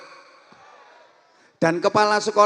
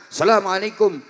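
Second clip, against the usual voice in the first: raised, brisk greeting; student greeting teacher Arab style; high-pitched Arab style; 3 semitones higher, 3 dB louder than usual. Shown as a demonstration. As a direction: lift the voice like arms raised. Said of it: "pakai nada tinggi".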